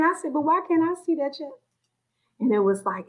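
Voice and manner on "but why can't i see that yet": tearful plea. Retold or imitated. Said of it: "just tearing".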